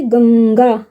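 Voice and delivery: गंगा with the middle nasal held long; nasal drawn out. Shown as a demonstration. Teacher showing which nasal गंगा has, nasal drawn out. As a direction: linger on the nasal in गंगा before the final गा. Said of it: "ये वाला अण आ गया".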